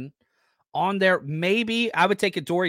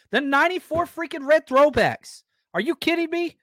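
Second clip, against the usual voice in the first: excited; 12 semitones higher, 3 dB louder than usual. Real, not acted. Hyped about red throwbacks.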